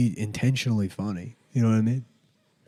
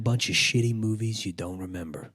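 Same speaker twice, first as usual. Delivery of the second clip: Steven Dorff impression. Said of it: "Steven Dorff".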